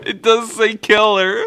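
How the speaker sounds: high, teary laughing; laughing to tears. Real, not acted. Reading twin cousin's name, crying with laughter. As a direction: laugh so hard it nearly cries.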